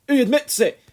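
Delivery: loud, high triumphant roar. A narrator's reading. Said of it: "roared the Colonel".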